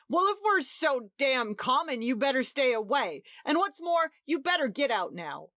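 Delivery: high, loud, furious; a host ordering the guests out in fury; violent outburst. A narrator's reading. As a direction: throw the guests out with your voice. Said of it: "burst out Marky violently".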